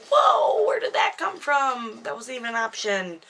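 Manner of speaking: high, loud startled yelp at first, then calming down; a man caught off guard, blurting out his innocence; startled protest. Retold or imitated. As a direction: act shocked that she'd even suggest it. Nathan voiced, startled and defensive.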